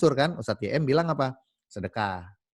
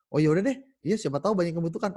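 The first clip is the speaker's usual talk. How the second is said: eager wife; 6 semitones higher, faster than usual. Acted. Wife agrees quickly.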